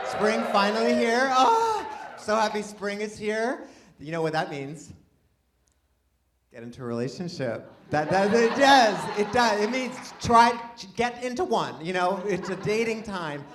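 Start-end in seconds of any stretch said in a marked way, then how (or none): 0.1-3.7 high, loud cry of joy; elated. Real, not acted. Rejoicing with crowd that spring came. 7.9-11.8 comic insistence. Pretend. Insisting emphatically to the crowd.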